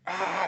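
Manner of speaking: high drawn-out "ah" of rage; exasperated cry. Retold or imitated. Enraged outburst at the demon's threat.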